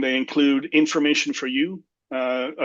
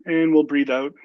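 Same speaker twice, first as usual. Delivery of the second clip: guided deep breathing. Shown as a demonstration. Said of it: "take three deep breaths".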